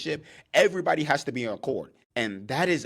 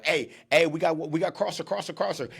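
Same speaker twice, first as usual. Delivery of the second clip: mock yell; 4 semitones higher than usual. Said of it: "he's yelling out to the outside backer".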